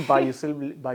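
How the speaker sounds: laughing while speaking. Real, not acted. Guest laughs admitting siblings slapped him. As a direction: giggle through the confession.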